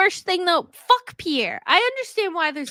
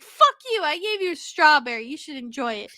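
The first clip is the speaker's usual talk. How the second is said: mock outburst. To townsfolk who snub her gift, a mock outburst. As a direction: snap at ungrateful villagers. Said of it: "and you're like".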